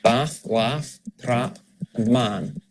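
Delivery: "Bath", "laugh", "trap", "man" all on one A; slowly match the vowel of "Bath" to "trap"; same Scottish vowel. Shown as a demonstration. Coach demonstrating matching vowels, Scottish A in "Bath" and "trap". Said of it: "in this accent they're the same".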